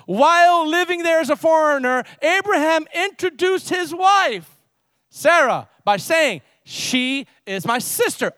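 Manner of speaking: high, emphatic, drawn-out pulpit reading; declaimed scripture. Acted. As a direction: proclaim the verse with mounting disbelief.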